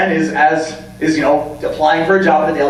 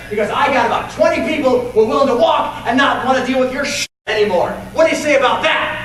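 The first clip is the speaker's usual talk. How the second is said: fierce confrontation; 7 semitones higher than usual. Retold or imitated. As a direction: stand up to the bully and yell him down. Lois confronts the bully.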